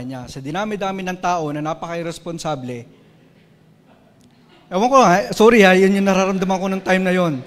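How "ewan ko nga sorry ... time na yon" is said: louder and higher, real feeling breaking through; raised emotional voice. Real, not acted. Sorry ha, yun yung nararamdaman ko. (tumaas ang boses sa damdamin)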